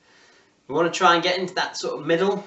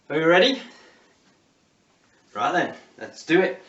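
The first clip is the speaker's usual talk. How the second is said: rallying call; 5 dB louder than usual. Real, not acted. Coach firing up the class.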